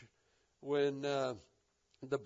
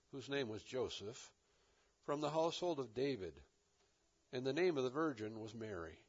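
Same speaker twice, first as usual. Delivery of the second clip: phrase-by-phrase reading, softer and lower; quietly recited verse with spaced phrases; measured scripture reading; 3 semitones lower, 4 dB quieter than usual. Shown as a demonstration. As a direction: let each phrase unroll, pausing between. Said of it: "it reads like this".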